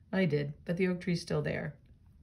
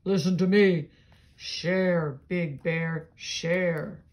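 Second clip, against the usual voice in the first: a louder, lightly voiced old oak; deep tree voice; 3 dB louder, much slower than usual. Reading a picture book aloud, the oak tree calls to Bear. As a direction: call out as the big old tree. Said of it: "A deep, low voice said".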